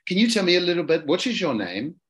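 put-on British gent making small talk; lightly voiced British suitor; London accent. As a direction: ask politely in a London accent. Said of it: "I'll do the London accent".

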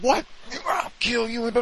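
high, strained mock threat; hammed-up furious threat; imitating furious son. Retold son's furious reaction.

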